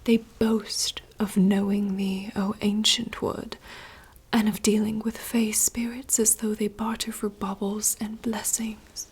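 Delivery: slow, hushed theatrical reading; whispered dramatic monologue. Acted. Reading a princess's forest monologue aloud in rehearsal, hushed theatrical whisper. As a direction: whisper the lines like a stage soliloquy.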